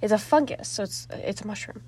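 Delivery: talking through hiccups; suppressing hiccups. Real, not acted. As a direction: hold back hiccups as you speak. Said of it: "I'm sorry, I have hiccups".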